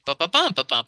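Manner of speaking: "ba-ba-bum" with two light shorts before the stressed bum; extra syllable beat. Shown as a demonstration. Showing resolution in meter, chanting the beat. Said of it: "Like you could say".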